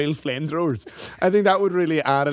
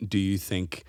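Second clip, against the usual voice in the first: mock earnest; 6 semitones lower, 3 dB quieter, slower than usual. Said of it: "your propensity to bring up".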